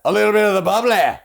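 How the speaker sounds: high, loud posh lilt; fancy hostess voice. Acted. Host toasting friends on air, grand and high. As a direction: present the bubbly like a snooty host. Showing off the champagne.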